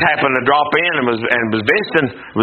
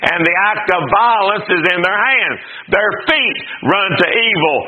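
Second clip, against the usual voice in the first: measured reading of Isaiah; steady King James recitation; scripture reading; 3 semitones higher than usual. Acted. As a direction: read the verses with gravity.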